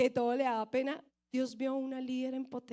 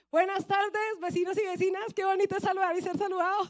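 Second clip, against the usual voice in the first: bus preacher greeting; 4 semitones higher, 3 dB louder than usual. Retold or imitated. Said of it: "Y empecé".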